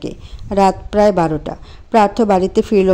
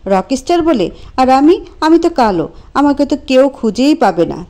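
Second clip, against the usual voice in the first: raised, hurt outburst; shouting; 3 semitones higher than usual. Acted. Anto shouting his hurt at Priya. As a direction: finally let it all pour out. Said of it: "চেঁচিয়ে বলল".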